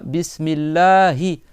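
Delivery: Bismillahi drawn out slowly with a doubled L and a long A; slow careful Arabic. Shown as a demonstration. Teacher to pupils, drawing out Bismillahi slowly. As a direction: read Bismillahi slowly, hissing and stretching each sound. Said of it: "la première chose".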